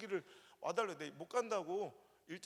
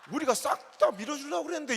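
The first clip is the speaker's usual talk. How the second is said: louder, higher Chungcheong folk quote; 5 semitones higher, 10 dB louder than usual. Retold or imitated. Preacher imitating Chungcheong villagers, loud Chungcheong quote. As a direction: play the late-to-react Chungcheong neighbour. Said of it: "충청도 사람들 뭐라는지".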